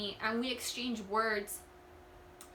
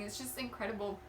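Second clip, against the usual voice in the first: real tearful crying; 4 dB quieter than usual. Real, not acted. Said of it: "sorry that I'm crying".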